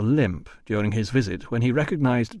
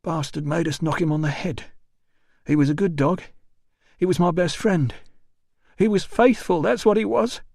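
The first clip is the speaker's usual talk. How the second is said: put-on higher, maudlin drunken lament; drunk grieving porter; 8 semitones higher than usual. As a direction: mourn the dog like a drunk.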